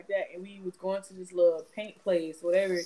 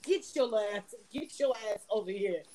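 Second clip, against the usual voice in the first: snapping. Retold or imitated. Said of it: "I'm snapping at her".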